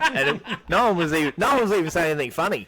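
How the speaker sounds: high and fast, cracking up; giggling disbelief; laughing. Real, not acted. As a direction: rush it out through laughter. Laughing at own story.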